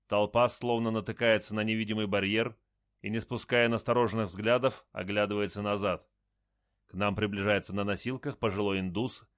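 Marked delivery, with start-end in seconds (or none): none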